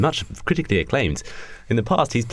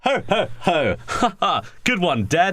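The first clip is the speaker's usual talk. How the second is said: mock villain laugh; 6 semitones higher than usual. Bush son laughs at plan.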